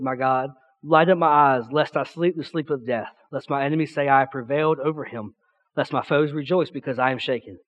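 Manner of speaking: measured reading of a psalm, falling at verse ends; scripture reading. Acted. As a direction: read the verses solemnly to a congregation. Reads the psalm aloud.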